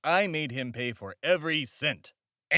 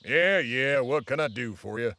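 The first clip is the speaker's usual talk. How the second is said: a lightly raised, eager TV-host voice; showman host character; 4 semitones higher than usual. Acted. Host knocking on Rush Limbaugh's door, eager showman voice. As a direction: greet the door like a grinning showman.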